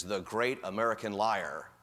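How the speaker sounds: slow imitation of broken English accent. Afghan interpreter introducing a visiting American officer, lightly broken English accent. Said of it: "in this broken English accent, he says".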